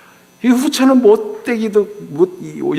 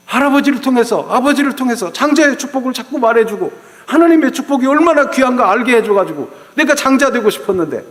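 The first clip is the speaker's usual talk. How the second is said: Jacob wrestling God; 3 semitones higher than usual. Acted. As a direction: plead like a desperate man arguing all night. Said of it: "하나님 앞에 막 씨름하는 거예요".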